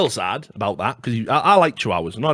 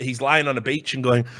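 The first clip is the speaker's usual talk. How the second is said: ordinary delivery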